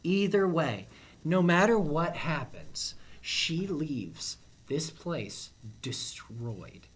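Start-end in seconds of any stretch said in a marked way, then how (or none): 3.2-6.9 whispering. Real, not acted. Grim verdict on contestant's fate.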